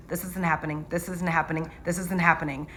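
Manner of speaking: softly repeated to oneself in denial; stunned disbelief. Retold or imitated. Nurse anesthetist as patient codes, hushed disbelief. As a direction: murmur it like a stuck loop.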